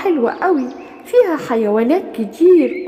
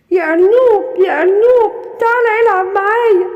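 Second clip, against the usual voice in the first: louder call across the farm; 4 semitones higher, 3 dB louder than usual. Acted. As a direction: call the rabbit from afar. Goat calling the rabbit.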